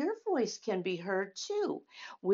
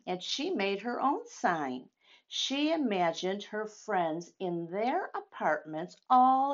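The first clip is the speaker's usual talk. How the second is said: story narration. A narrator's reading. Reading picture book aloud.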